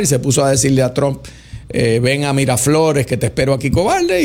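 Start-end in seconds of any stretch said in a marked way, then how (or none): 2.0-4.2 lightly mock the bravado of a challenge; a hint of a swaggering taunt. Maduro quoted taunting Trump.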